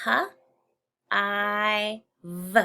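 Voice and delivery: each letter spoken separately with pauses. Shown as a demonstration. Teacher spelling for the class, letter by letter. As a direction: spell it out slowly, one letter at a time. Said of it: "let's finger spell".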